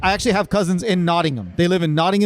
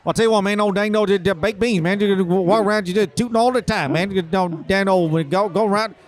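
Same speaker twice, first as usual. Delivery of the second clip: Boomhauer impression. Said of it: "Can we get a little Boomhauer?".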